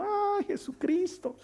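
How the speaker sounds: father joking to Jesus about the lost boot, mock worried; mock despair. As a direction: sigh it out in playful alarm. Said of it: "yo digo".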